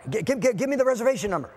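stammering, high and hurried; flustered urgency. Retold or imitated. Traveler urging his secretary for the booking number, flustered. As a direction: stumble over the first word in mock panic. Frantic traveler retelling the ticket mix-up.

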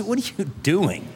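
mock them like gloating doubters; a preacher's mildly hammed-up scoffing voice; mocking scoffers. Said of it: "they'll gloat, they'll laugh".

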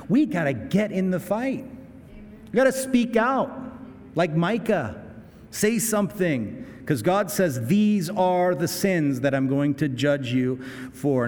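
rally her like a pulpit call to action; fired-up preaching. Retold or imitated. Husband explaining the donation to his wife, fired-up and rising. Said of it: "I said".

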